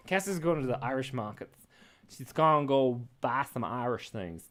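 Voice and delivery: put-on shaky-footed go at an Irish accent; half-successful Irish accent; attempted Irish accent. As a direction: try an Irish accent without quite getting it. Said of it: "I can't do the accent".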